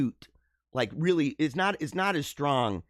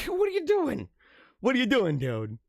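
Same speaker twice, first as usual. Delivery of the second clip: mock incredulous; 7 semitones higher than usual. Real, not acted. Teasing a viewer's greeting.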